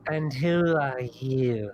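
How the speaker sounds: lightly voiced slow hag; hag's question. Hag questioning a newcomer, slow and drawn-out. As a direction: stretch the question out in a hint of hag voice.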